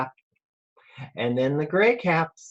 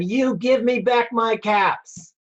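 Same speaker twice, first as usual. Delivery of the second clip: scolding; 6 semitones higher than usual. Acted. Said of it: "he said, shaking a finger at them".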